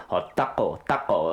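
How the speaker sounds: put-on Latino Spanish accent. Friend imitating a MasterChef contestant, showy Spanish accent. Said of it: "The one word that needs the accent".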